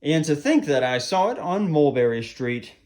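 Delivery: lilting rhymed storytime reading; animated storyteller with expressive rises and falls; children's story narration. A narrator's reading. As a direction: read a verse picture book to children. Reads a rhyming picture book.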